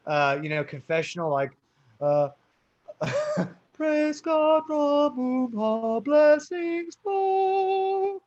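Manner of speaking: hammed-up hymn line, very slow and high at the end; lightly voiced formal churchman; mock Presbyterian. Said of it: "we're much more formal".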